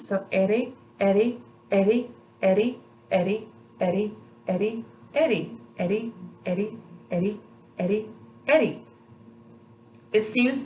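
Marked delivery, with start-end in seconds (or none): 0.3-8.8 Eddie with a very light tap behind the teeth; light tongue tap. Shown as a demonstration. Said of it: "very light touch with your tongue".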